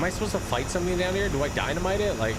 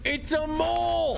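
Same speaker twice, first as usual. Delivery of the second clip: surprised; 13 semitones higher, slower than usual. Real, not acted. Spotting the monster.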